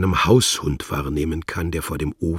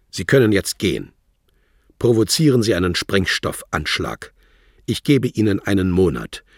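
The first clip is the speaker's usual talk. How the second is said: fast, louder, cold dismissal; curt and final; 4 semitones higher, 6 dB louder than usual. Acted. Wladimir gives Worlock his ultimatum, curt, cold and final. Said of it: "ganz knapp, distanziert und endgültig".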